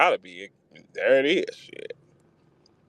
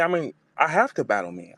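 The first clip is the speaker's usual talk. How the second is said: imitating Jazz; 7 semitones higher than usual. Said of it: "She said".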